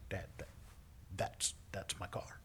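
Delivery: soft, low, halting reply; retold sheepish admission to a parent; hesitant. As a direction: break the news reluctantly. Hesitant confession to father.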